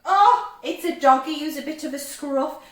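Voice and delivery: loud, high burst of discovery; delighted surprise. Pretend. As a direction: react loudly as the picture is revealed. Delighted reaction to revealed picture.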